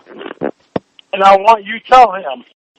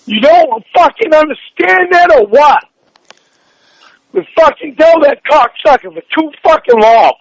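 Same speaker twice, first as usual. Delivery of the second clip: loud, high, raging; furious rant; 3 semitones higher, 3 dB louder than usual. Real, not acted. Girlfriend raging at him about the doctor, loud. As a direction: vent all the built-up rage. Furious partner ranting on phone.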